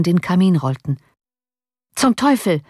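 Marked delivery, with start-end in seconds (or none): 1.9-2.6 higher-pitched exclamation; exclaimed curse. A narrator's reading. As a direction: cry out the curse in mild vexation. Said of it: "rief van Baale".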